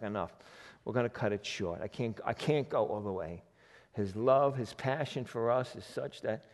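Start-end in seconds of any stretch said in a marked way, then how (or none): 0.0-3.4 softer voicing of God. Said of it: "It's like".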